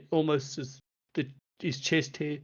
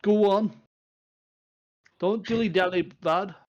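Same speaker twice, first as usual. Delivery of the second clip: loud, higher, irritated dwarf bellow; a disturbed dwarf yelling through the door; grumpy dwarf; 6 semitones higher, 7 dB louder than usual. Acted. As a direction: Doran roaring at the knock. Dwarf catching on, impatient.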